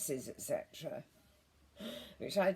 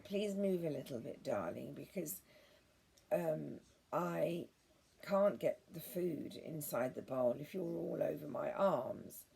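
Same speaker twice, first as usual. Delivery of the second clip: very sweetly. Retold or imitated. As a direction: gently sweet-talk the cat out of the way. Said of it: "And I say it very sweetly".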